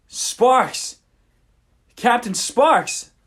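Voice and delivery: slow, hammed-up shout of recognition; calling out. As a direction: call the name across the room. Pirate king recognizes old captain.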